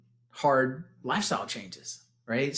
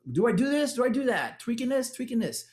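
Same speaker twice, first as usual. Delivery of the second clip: mock fretting; 10 semitones higher than usual. Mocking confused self-questioning.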